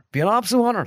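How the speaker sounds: overjoyed at the call-up; gushing. Retold or imitated. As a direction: lad thrilled to join the county panel. Eager lad accepting call-up.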